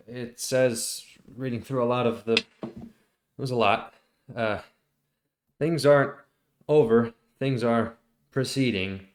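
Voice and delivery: a lightly voiced worried messenger; hesitant NPC reporting vague orders; Danuk's voice. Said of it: "Danuk says".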